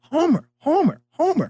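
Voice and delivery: put-on high child's call of Homer; kid calling out. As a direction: call out the name like a young fan. Kid calling again, retold.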